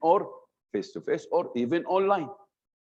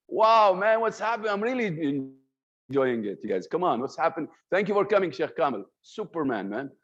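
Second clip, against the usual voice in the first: happy, with zest; 3 semitones higher than usual. Shown as a demonstration. Teacher showing a happy speaker cheering the audience, excited. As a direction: greet them like you're thrilled they came. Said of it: "I put some zest".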